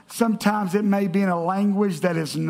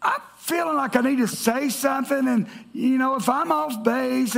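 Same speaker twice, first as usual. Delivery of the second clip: retold hesitant apology, pitched slightly up; tentative, mildly sheepish opener; apologetic; 3 semitones higher than usual. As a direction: ease in awkwardly, as if sorry to bother. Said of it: "I kind of apologetically said".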